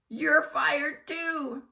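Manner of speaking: loud, high, slow shout. A narrator's reading. Principal shouting at Miss Jojo. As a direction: fire her with a shout. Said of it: "shouted Doctor Carbles".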